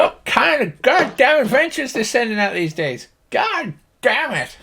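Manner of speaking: very high cowboy grumbling; high-pitched, fed-up country old-timer; exasperated Slim Pickens. Acted. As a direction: scoff in a high farmer's voice. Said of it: "If you imagine Slim Pickens".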